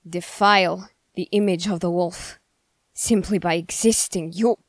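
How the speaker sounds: indignant condemnation. Acted. Devout accuser condemns a shapeshifter for defiling the wolf, indignant. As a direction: condemn them with righteous force.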